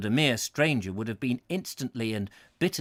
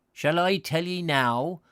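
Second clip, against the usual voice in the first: put-on old pedlar; 6 semitones higher, 4 dB louder than usual. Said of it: "the soft flute-like voice".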